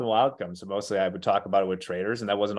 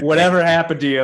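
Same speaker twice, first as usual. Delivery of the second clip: much louder, higher, fast casual buddy voice; mock bar buddy; 7 semitones higher, 9 dB louder, faster than usual. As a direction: toss it off like a drinking pal.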